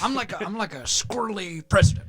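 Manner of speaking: folksy Texan president voice; George W. Bush. Acted. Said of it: "Now we're just doing George W. Bush".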